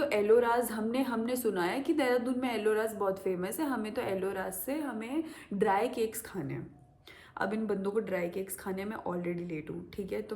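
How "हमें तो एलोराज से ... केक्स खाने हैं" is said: whispered friends' demand. Retold or imitated.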